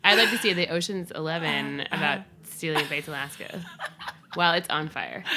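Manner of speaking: laughing. Real, not acted. Joking while still laughing.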